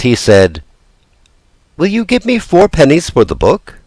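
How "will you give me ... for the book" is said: pleading puppet voice. Acted. Pinocchio pleads for a sale.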